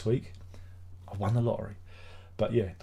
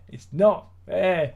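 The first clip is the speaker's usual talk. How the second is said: mock whine; 6 semitones higher, 6 dB louder, much slower than usual. Mock tantrum over printing label.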